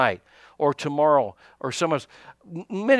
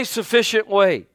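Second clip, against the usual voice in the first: congregation call and response; 2 semitones higher, slower than usual. Shown as a demonstration. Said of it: "everybody say".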